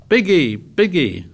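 high, mocking cry of glee; gleeful shriek. A narrator's reading. Ralph jumps up teasing the fat boy, gleefully shrieking. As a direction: crow the nickname in high delight. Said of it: "Ralph shrieked with laughter".

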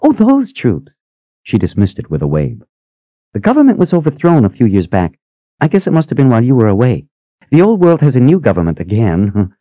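put-on high, quick, eager old sister; bubbly high-pitched sister asking. A narrator's reading. Phoebe explains the emperor.

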